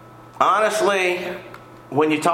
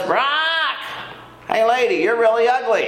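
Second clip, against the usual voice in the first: high-pitched parrot squawk, then a rude remark; 7 semitones higher than usual. Acted. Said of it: "suddenly the parrot says".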